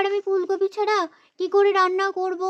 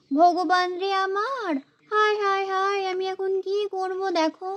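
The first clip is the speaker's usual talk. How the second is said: mock lament. Wife laments wrong vegetables.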